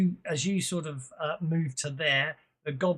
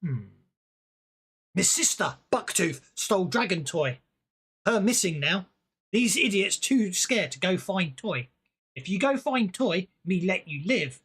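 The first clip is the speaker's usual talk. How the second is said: higher, louder goblin in broken speech; goblin king voice; 4 semitones higher, 5 dB louder than usual. Acted. Goblin king sends the heroes after his stolen toy, high and loud. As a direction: bargain like a bossy little goblin king. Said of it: "he looks down at you and goes".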